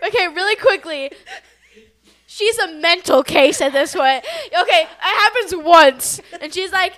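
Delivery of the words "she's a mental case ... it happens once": loud, slow, laughing tease. Real, not acted. Teasing her friend about the latte, loud laughter.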